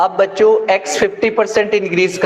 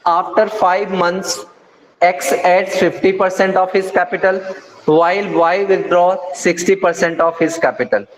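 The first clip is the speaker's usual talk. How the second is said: deliberate word-by-word reading; slow question reading; much slower than usual. Shown as a demonstration. Teacher to students, reading the question slowly. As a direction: spell the problem out slowly for the class.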